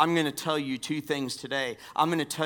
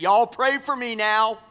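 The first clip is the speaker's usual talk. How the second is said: put-on child's plea in a higher, louder southern accent; 8 semitones higher, 7 dB louder than usual. Boy carried out of church cries in a southern accent. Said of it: "charming southern accent".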